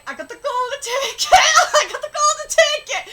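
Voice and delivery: gleeful high shout, building; Ishigami. Retold or imitated. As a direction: imitate his triumphant crowing. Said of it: "Ishigami's like".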